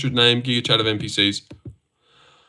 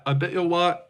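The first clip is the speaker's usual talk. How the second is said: quieter, laughing through it; softer, laughing repeat; 4 semitones higher, 5 dB quieter than usual. Shown as a demonstration.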